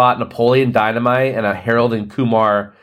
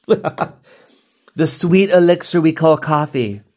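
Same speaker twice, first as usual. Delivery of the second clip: mock reverent; 5 semitones higher, much slower than usual. Mock reverent coffee praise.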